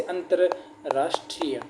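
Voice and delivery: अंतर्राष्ट्रीय said slowly with the full र sounded; careful demo. Shown as a demonstration. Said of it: "र पूरा आएगा". (अंतर्राष्ट्रीय धीरे, पूरा र बोलते हुए)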